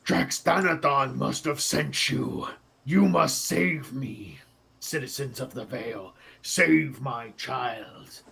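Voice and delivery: put-on a desperate dragon pleading for her child; pleading dragon mother. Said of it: "the dragon looks at you and is like".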